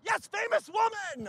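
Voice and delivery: high, emphatic confirmation; excited touting. Acted. Friend touts actress to a passerby, excited. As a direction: crow it to the passerby.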